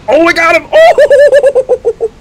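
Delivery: real shriek of triumph, very high and loud; excited shouting. Real, not acted. Lands the winning shot in game.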